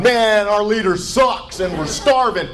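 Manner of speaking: mock North Korean, southern twang; North Korean with southern accent. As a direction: moan it in a hammed-up southern accent. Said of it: "my imitation of a North Korean right there with a southern accent".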